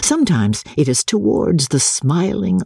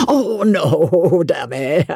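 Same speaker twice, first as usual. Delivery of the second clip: rather alarmed; 3 semitones higher, much slower than usual. A narrator's reading. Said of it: "rather alarmed".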